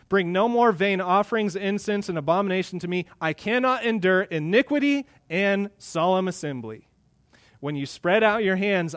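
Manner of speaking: forceful pulpit reading as God; God rebuking worshippers. Acted. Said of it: "this is God speaking through the prophet".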